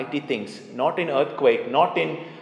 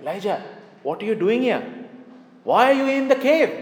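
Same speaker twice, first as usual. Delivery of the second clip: voice of God; 8 semitones higher, faster than usual. Acted. God questions Elijah again.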